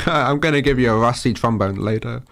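usual speaking voice

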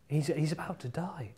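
whisper. Acted. Dramatic turn in the story.

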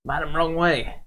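high urgent call; mock yelling a warning at a distracted stranger; warning shout. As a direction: shout a warning across the platform. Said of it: "pointing at this".

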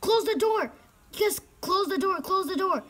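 high-pitched, insistent yelling; urgent panic. Real, not acted. Player fleeing a murderer, urgent panicked plea.

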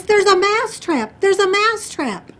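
high, loud panicked cry; shrieked warning, acted out; horrified mouse. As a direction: shout the alarm like a terrified storybook mouse. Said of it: "the mouse is absolutely horrified".

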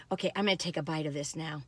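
hushed whisper. Real, not acted. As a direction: whisper it like a secret. Confides before taking a bite.

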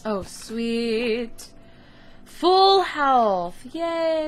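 high, loud cheer; joyful. Real, not acted. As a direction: squeal with delight. Joy at full health.

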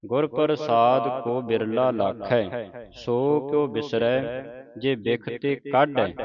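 slow, drawn-out reading of verse; scripture recitation. Acted. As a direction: recite it slowly, word by word. (ਧੀਮਾ Gurbani ਪਾਠ)

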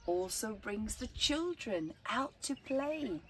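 put-on slow, lilting read-aloud for children; gentle storyteller reading to kids; story narration. A narrator's reading. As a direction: tell it like a bedtime picture book. Reads picture book aloud.

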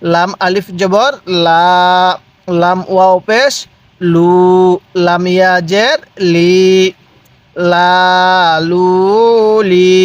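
spelling chant with "লা", "লু", "লি" held level; measured recitation, long vowel on "লু"; drawn-out vowels. Shown as a demonstration. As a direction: stretch each of "লা, লু, লি" separately. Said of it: "এরকমভাবে শিখবেন".

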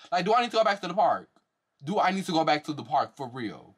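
shrill disbelieving rant, voice climbing; exasperated high rant. Real, not acted. Ranting at the cast for faking surprise, voice climbing high.

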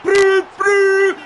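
high, loud celebratory shouting; ecstatic goal celebration. Real, not acted. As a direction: yell the scorer's name and whoop wildly.

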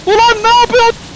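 high, loud protest; outraged yell. Real, not acted. Gamer protesting what another player just did, outraged yell. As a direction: yell in disbelief at a rival.

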